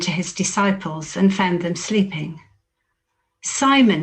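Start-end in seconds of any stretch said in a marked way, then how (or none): 3.4-4.0 calling out sharply. Acted. Jesus finding Peter asleep, calls his name sharply. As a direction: raise the voice on the name, calling him out. Jesus wakes sleeping disciples.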